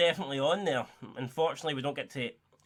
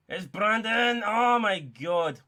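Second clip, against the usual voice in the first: higher, louder, slowing on oh my god; rising excitement; 6 semitones higher, 4 dB louder, much slower than usual. Real, not acted. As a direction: build to a gasp as the chance opens. Chance builds live.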